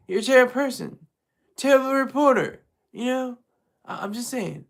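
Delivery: lightly voiced blowhard, dragging the words; mock Trump impression. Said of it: "It's my terrible impression".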